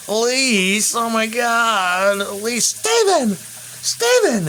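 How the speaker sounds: high, frantic, rising to a shriek; uptight yuppie dad. Retold or imitated. Vlogger mimicking the uptight sitcom dad calling his wife, frantic and high. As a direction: panic like a wrapped-up gerbil. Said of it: "he's all uptight like a wrapped up gerbil".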